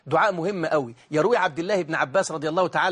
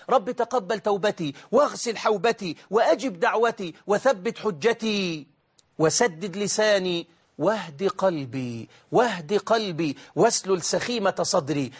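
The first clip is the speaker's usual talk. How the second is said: slow, drawn-out prayer petitions; slow down and stretch each closing petition; supplication recitation; slower than usual. Acted. (دعاء بطيء ممدود الأواخر)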